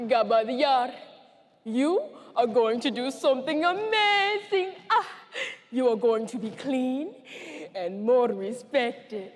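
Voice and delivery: a touch of gushing praise; lightly voiced villager. Villagers telling a girl she'll become a woman, mildly gushing. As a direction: play a villager proudly congratulating a girl. Villagers' congratulations acted in survivor's story.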